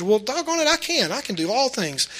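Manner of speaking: high, hammed-up can-do cheer; mock motivational pep talk. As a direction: imitate a peppy motivational speaker. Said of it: "motivational teachings and inspirational teachings".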